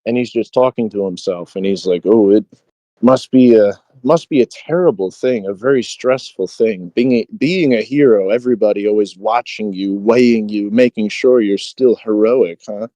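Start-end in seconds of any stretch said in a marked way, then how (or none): 2.0-12.9 mock sympathy, lightly needling; understated taunt dressed up as musing; retold taunting. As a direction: feign pity for the burdened hero. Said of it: "he's taunting him the entire time".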